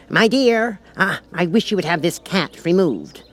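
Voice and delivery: a king calling across to his wife. Acted.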